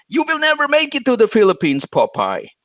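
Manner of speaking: very high, loud, swooping outburst. Retelling what someone yelled on a live stream: imitating someone yelling. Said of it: "He was yelling and said".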